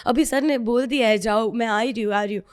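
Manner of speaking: a bright put-on phone voice, covering her fear; fake phone chat. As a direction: hurry through it like a casual call home. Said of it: "झूठ मूठ का बोल रही हूँ".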